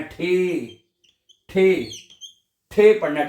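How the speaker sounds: ठे with a breathy aspirated TH; ठे repeated for the class; aspirated teacher demo. Shown as a demonstration. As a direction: puff air out on ठे. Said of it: "टी को आपने ठे पढ़ना है".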